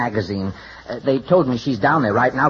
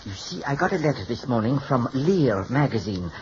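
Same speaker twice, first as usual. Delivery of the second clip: put-on French hairdresser accent; phony French accent. Hairdresser apologizing to his client, phony French accent. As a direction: speak with a fake French accent. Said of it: "without the phony French accent".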